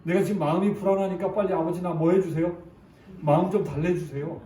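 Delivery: put-on begging child. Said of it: "이렇게 얘기하는 거예요".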